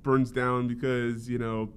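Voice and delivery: lightly voiced TV anchor teasing a headline; mock news anchor. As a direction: ham up a doom-and-gloom news intro. Mocking a Fox News anchor.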